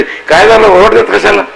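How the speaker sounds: high, alarmed question to the cow; startled child asking what's wrong; worried call. Retold or imitated. Calling out to the cow.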